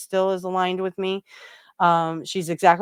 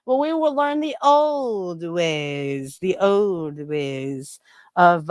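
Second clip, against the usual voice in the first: mock olde English accent; much slower than usual. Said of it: "I tried".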